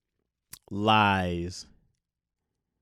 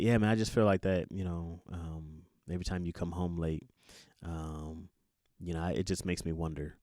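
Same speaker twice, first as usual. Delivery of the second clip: much softer, hesitant voicing of a hurt partner; timid complaint; 6 semitones lower, 8 dB quieter than usual. Partner gently raising coming home late, timid and soft. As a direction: barely dare to bring it up. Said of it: "you'll be like".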